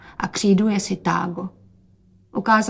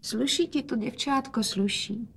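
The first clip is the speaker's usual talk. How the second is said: soft, slightly higher gentle praise; quietly; 3 semitones higher, 7 dB quieter than usual. A narrator's reading. Father softly praising his daughter again, quiet. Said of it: "hovořil otec tiše".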